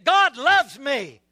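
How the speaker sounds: emphatic, drawn-out declaration; really mean it. Shown as a demonstration. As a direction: say it like you truly believe it. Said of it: "Now say it like you really mean it".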